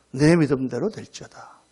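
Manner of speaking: low, slow voice of authority; solemn pronouncement. Retold or imitated. Jesus grants the blind men healing, solemn and slow. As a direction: pronounce it slowly, pitched low.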